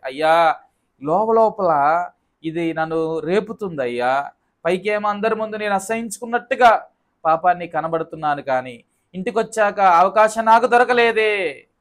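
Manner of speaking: high-pitched mock lament to God; imitated tearful confession. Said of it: "అని ఏడవాలి". (ఏడుస్తూ ఒప్పుకుంటున్నట్టు అభినయం)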